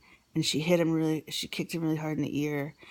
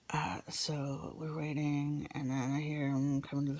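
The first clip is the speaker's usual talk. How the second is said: whisper; 6 dB quieter than usual. Real, not acted. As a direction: whisper while you wait. Tense waiting for husband.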